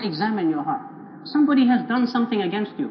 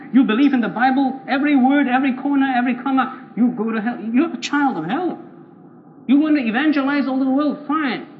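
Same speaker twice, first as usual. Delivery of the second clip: higher, emphatic condemnation; forceful rebuke; 4 semitones higher, 4 dB louder than usual. Acted. The Lord answers the evangelical who protests, forceful rebuke. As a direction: hammer each item of the charge.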